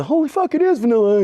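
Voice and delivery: a touch of starstruck cop; mock amazement. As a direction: gasp at seeing the star. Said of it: "they go".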